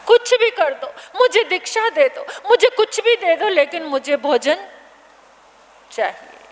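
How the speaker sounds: put-on a starving boy begs the acharya, desperate; desperate begging. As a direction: plead as if there's no other hope.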